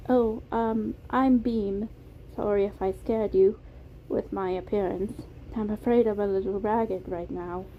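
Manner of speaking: put-on shy British-accented introduction; Beam, British accent. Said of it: "It was a soft British accent".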